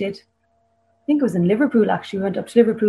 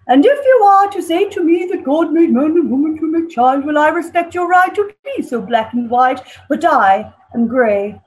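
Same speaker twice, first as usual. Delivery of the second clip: put-on dodgy posh English accent; 4 semitones higher than usual. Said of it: "the poem involves a very posh, dodgy English accent".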